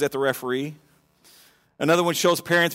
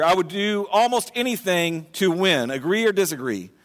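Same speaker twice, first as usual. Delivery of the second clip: slow survey read. Shown as a demonstration. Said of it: "asked a thousand people these questions".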